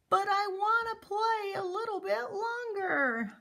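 put-on high, whining little kid; whiny child voice. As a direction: beg like a pouty child. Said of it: "child's plea in a lesson".

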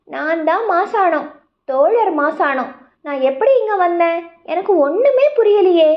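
put-on a lost baby elephant bellowing for answers; trumpeting baby elephant. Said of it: "யானைக்குட்டி ஒன்று பிளிறியது".

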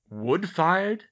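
loud question rising in pitch; puzzled echo. A narrator's reading. Father to daughter about stoves, puzzled. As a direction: repeat it back in surprised query.

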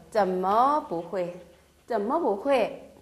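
each syllable spelled out slowly; slow model reading. Shown as a demonstration. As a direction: read it slowly for learners. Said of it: "자, 어째서?". (천천히 또박또박 읽는 예문)

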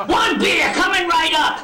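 slowly mock the second customer's speech back at him; bartender mimicking. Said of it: "I was making fun of him".

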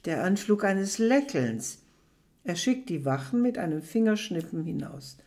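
measured literary reading aloud; story reading. A narrator's reading. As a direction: read the prose to the audience, steady. Reads novel excerpt aloud.

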